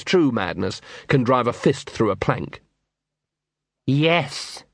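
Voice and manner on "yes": chilling reply. Acted. Big Fido reveals himself.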